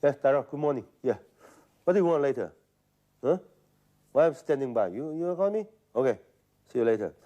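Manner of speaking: talking round a cigarette in mouth. Retold or imitated. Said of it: "I put the cigarette in my mouth".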